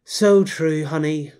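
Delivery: heavy irony, sweetly sarcastic; ironic. Acted. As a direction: say it like you don't mean it. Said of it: "heavy sense of irony".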